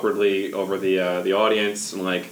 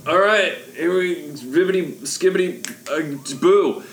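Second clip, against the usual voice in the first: put-on overbright kids party host; 9 semitones higher, slower than usual. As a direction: stumble in then sell the magic. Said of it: "he's gonna be like".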